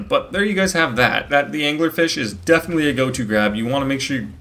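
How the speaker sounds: talking through hiccups; hiccuping between words. Real, not acted. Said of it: "I don't know why I'm hiccuping so much".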